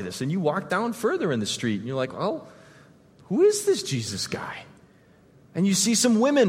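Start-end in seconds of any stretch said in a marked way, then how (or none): 2.1-4.6 hushed whisper of wonder; walking on alone, wondering under the breath in a whisper; whisper to yourself. Pretend. Wondering to oneself in street.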